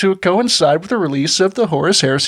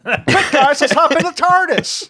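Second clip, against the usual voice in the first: Doctor Who voice; 9 semitones higher than usual. Pretend. Playing Doctor Who time travel.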